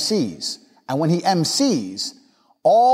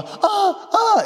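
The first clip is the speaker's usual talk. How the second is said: mock moaning, pitched up; imitated sex moans. Storyteller mimicking sounds heard outside the gates, mock moans. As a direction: moan in crude imitation. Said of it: "of sex in the background".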